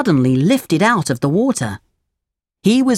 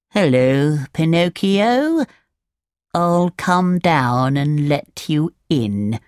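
very slow slimy snail voice; slower than usual. Acted. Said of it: "said the snail".

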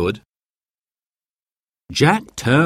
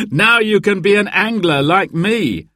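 laughing happily; 10 semitones higher, 3 dB louder than usual. A narrator's reading. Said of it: "laughing happily".

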